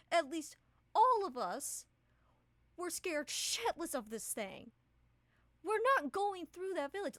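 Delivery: high, loud anxious pleading; scared companion begging to avoid the village; frightened Ravine. Acted.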